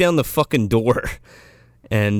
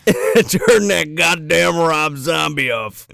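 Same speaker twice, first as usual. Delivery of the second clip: mock cop yell; 3 semitones higher, slower than usual. Cops yelling about loud music.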